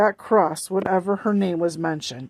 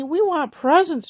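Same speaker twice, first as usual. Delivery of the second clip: put-on higher childish chorus; chiming children; 8 semitones higher than usual. A narrator's reading. Little sisters begging for presents, high and eager. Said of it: "chimed in Polly Prue".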